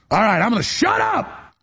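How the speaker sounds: high, yelled exasperation; exasperated yell; shouted self-interruption. Real, not acted. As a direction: cut yourself off with a high shout. Cuts himself off with a shout.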